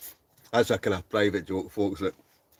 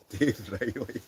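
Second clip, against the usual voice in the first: laughing; 3 semitones higher, slower than usual. Real, not acted. Laughs reading name.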